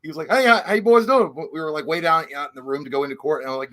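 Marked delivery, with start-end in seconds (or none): 0.3-1.3 raised, loud folksy greeting; booming, higher-pitched hello to the boys; redneck attorney. Retold or imitated. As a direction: imitate a hearty country lawyer. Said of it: "it's so redneck".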